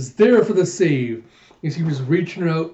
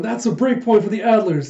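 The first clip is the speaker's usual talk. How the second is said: high, excited announcer's call; raised play-by-play voice; sports announcer; 5 semitones higher, 4 dB louder than usual. Acted. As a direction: announce the point to the crowd. Voicing announcer on break point.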